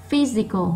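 PHY in "physical" picked out, then falling; stressed first syllable. Shown as a demonstration. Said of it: "nó to hơn những âm còn lại". (nhấn mạnh âm một của "physical")

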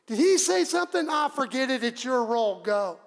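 puzzled, then dismissive. Acted. Soldier distracted from dice by Jesus, startled then dismissive. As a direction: ask sharply, then wave it away.

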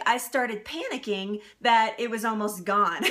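ordinary talk, nothing marked

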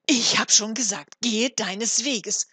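very loud, angry shout; wrathful. A narrator's reading. Frau Hanne sends the stranger away, wrathful. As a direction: order him off at full voice, slowing on the command. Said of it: "entgegnete Frau Hanne zürnend".

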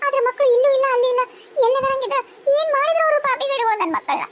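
keen for the lost babies; wailing lament. Acted. Mother wails for lost children.

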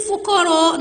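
"والفقراء" as wallll-fuqara; straight onto the lam. Shown as a demonstration. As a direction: hold the l in "والفقراء". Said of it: "نطقتوا اللام على طول".

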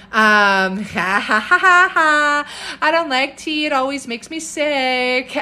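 high, loud laugh spilling into the words. Real, not acted. Herbalist reading a viewer's familiar objection to tea, laughing. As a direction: read it out through amused laughter. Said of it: "I am laughing because I hear this".

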